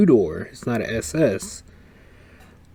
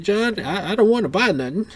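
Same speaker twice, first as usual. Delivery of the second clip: quoting Cecil excitedly; 5 semitones higher than usual. Retold or imitated. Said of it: "He's like".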